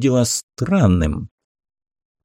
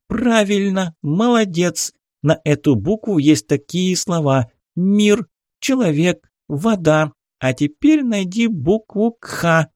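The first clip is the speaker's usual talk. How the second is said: high squeaky toy voice; cartoon voice; 9 semitones higher than usual. A narrator's reading. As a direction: praise like a chirpy learning toy. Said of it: "мультяшный голос". (писклявый мультяшный голос)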